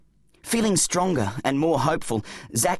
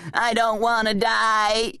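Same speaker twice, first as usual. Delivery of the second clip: high, drawn-out panicky wail; mock scream; 7 semitones higher, slower than usual. A narrator's reading. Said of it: "screamed his bum".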